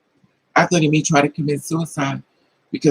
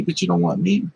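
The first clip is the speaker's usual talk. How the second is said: ordinary talk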